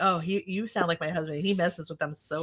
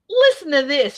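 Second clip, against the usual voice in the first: higher, louder, eager; mock excited; 9 semitones higher, 7 dB louder than usual. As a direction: share it with glee. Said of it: "he goes".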